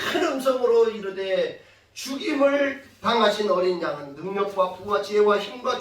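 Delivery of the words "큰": 큰 with a long, rasping breathy onset. Shown as a demonstration. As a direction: stretch the opening k of 큰 hugely. Illustrates the angel's great voice.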